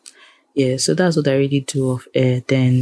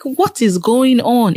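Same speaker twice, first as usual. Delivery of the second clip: high-pitched, slow what-is-going-on; incredulous, drawn out and raised; exasperated disbelief; 8 semitones higher, slower than usual. Retold or imitated. Radio listener baffled by a fake Pidgin presenter, exasperated. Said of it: "I'm like".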